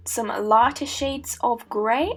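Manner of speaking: put-on slow, playful Australian accent. Painter narrating her shades of grey, in a playful Australian accent. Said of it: "I'm doing an Australian accent".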